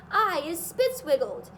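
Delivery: loud angry yell; raging giant yell. A narrator's reading. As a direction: shout it at the sky. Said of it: "yelled the child chewer".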